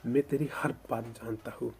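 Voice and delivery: passionate vow. Acted. Elder brother passionately protects sibling.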